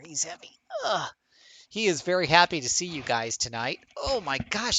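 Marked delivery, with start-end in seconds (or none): 3.9-4.8 pet talk. Acted. Talking to the cat on camera.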